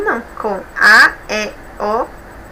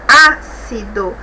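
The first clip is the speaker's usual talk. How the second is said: "Ácido" slow, with a drawn-out first syllable Á; stress first syllable; 2 semitones lower, 3 dB louder, much slower than usual. Shown as a demonstration. Teacher showing a proparoxítona, "Ácido" slowly stressed on Á. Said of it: "Palavra proparoxítona".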